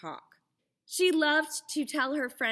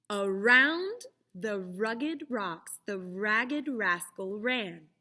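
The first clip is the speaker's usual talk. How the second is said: slow tongue twister; slower than usual. Shown as a demonstration. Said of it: "Try to repeat after me".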